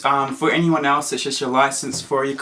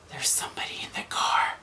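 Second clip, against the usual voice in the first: whisper; 10 dB quieter than usual. Retold or imitated. Mom warns him at night.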